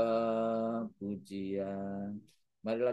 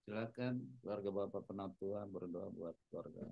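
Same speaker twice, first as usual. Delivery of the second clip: faint voice; 6 dB quieter than usual. Real, not acted. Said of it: "suaranya kecil".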